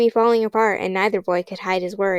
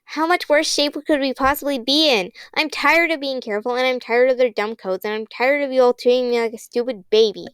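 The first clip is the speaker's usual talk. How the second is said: higher, building angry rant; angry outburst; 4 semitones higher than usual. Acted. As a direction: let the frustration boil over.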